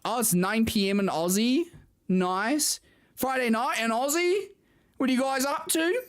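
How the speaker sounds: mock Aussie accent, lilting upward; terrible Australian accent. Streamer asking Aussie chat their Friday plans, terrible Australian accent. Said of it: "That's my terrible Australian accent".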